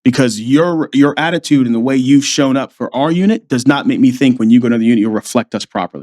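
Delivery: low, measured imitation of a colonel; commanding officer. Colonel tells Davis he can't trust him, grave imitation. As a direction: deliver the verdict as a low-voiced superior. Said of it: "the C O called me in".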